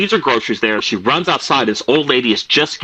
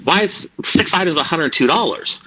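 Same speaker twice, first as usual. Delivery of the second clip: shocked disbelief; 5 semitones higher than usual. Retold or imitated. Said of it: "And my mom's like".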